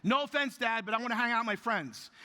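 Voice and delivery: mock teenage whine to her father; daughter's whine. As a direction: mimic a teen blowing off her dad. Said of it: "first words out of my daughter's mouth".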